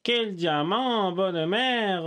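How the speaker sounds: slow mock Marseille accent. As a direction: drawl it like a Marseillais. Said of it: "Je parle avec l'accent marseillais".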